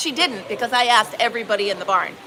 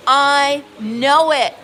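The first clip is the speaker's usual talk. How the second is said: 1 loud outrage; 7 dB louder, much slower than usual. Retold or imitated. Telling the owner, outraged.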